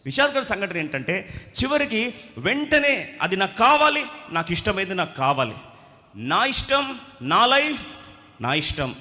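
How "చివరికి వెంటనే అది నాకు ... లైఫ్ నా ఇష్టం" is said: stamp your foot, my life my choice; spoiled youth demanding his way; selfish demand. Retold or imitated. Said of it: "అనమా ఇది".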